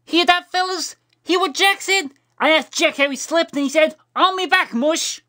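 laughing retelling. A narrator's reading. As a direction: crow it to the whole room. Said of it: "started laughing like it was the funniest".

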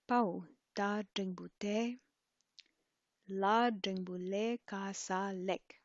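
"pau ka ratata" recited syllable by syllable, slowly; Tibetan oral spelling. Shown as a demonstration. Teacher spells it as to a Tibetan person, "la dengbu le ka sa lek" in Tibetan oral spelling. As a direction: sound out each Tibetan letter, then the syllable it makes, as in "sha gigushi sa shi". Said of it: "do it once through with the pronunciation".

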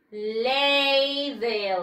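"ladle" drawn out long as "LAAY-del"; model pronunciation. Shown as a demonstration. Teacher tells pupils the English for cucharón, model pronunciation. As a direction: stretch both syllables of "ladle" evenly. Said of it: "Cucharón en inglés se dice".

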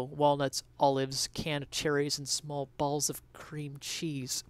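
slow, hushed whisper; reverent whisper. Acted. Remembering mom's Jell-O salad, slow hushed whisper.

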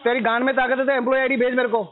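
angry demand. Real, not acted. Debtor demanding collector's employee ID, angry. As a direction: demand it as a dare. Real quarrel, daring the collector.

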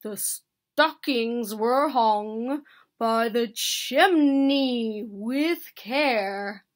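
slow, measured verse; reciting. A narrator's reading. Bear continuing his poem for Mouse, slow recitation. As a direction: declaim slowly, with weight on key words. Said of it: "Bear continued".

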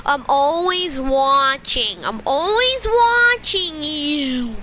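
slow, drawn-out creepy "I'm watching you"; creepy watcher. Pretend. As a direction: linger on every word like a lurking stalker. Creepy slow stalker lines.

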